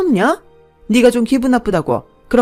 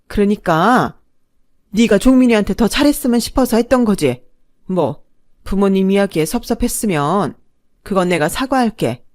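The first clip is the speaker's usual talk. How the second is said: flustered backpedal; 4 semitones higher, 7 dB louder than usual. A narrator's reading. Mother suddenly fawning, flustered.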